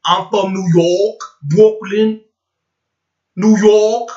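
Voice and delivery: hammed-up Brooklyn talk, stressed place names; mock New York accent. Mocking the dialect he hates, exaggerated New York accent. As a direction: imitate a New Yorker's dialect. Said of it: "like that talk".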